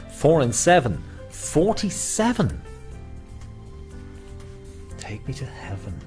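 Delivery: high, slow rhyming call; bingo caller. Acted. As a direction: sing the rhyme to the hall. Bingo calls on live stream.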